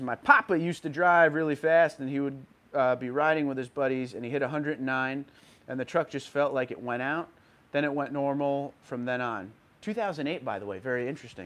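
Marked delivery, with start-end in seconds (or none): none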